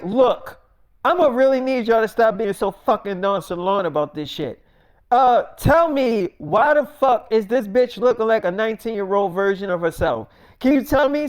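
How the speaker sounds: acted exasperation, moderately heated; thoroughly upset. Millie scolds nonchalant producers about the lookalike, mildly upset. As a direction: lean on the demand, mildly fed up. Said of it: "she's thoroughly upset".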